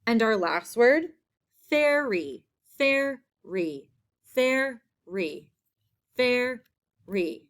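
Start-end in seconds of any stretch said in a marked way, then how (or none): 1.7-7.4 ferry with the air sound held and the r rolled long; air sound stressed. Shown as a demonstration. Teacher modelling the air sound for spelling class. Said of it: "That air sound".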